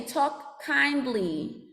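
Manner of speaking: slow, drawn-out chant; call and response. Shown as a demonstration. Teacher leading students in a slow chant. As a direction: say it slowly for the class to echo. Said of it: "Everybody say".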